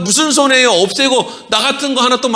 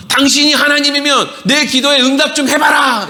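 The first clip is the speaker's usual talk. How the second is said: high, raised-voice demand; mock demanding shout; 5 semitones higher than usual. Churchgoer demanding God answer prayer, mock shout. Mimics believers demanding like the robber.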